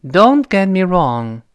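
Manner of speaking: "Don't get me wrong" with the t of "Don't" and "get" unreleased. Shown as a demonstration. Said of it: "是这么一个声音啊".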